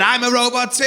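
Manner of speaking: high, lifted, eager outburst; mock-thrilled high-pitched reply; excited friend. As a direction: join in loudly and delightedly.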